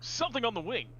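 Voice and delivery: unvoiced, dramatic vampire hush; vampire William Shatner. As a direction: breathe it like a hammy vampire Shatner. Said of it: "vampire William Shatner".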